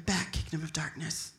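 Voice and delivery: low, soft, restrained prayer; hushed, low mock-calm praying; praying under breath. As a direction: murmur a rebuke in prayer, holding still. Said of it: "I'm praying like this".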